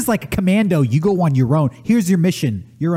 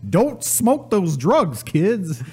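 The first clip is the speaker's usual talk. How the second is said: cartoon bear voice. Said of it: "a recording of a bear".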